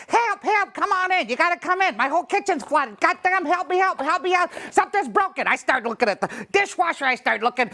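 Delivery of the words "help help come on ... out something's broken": higher pleading voice, mock panic; panicked lady caller. Plumber imitating the lady whose kitchen flooded, higher and panicky. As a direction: play the frantic customer on the phone. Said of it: "She goes".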